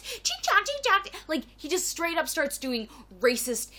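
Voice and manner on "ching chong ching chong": much higher mock gibberish. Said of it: "speak to her like this".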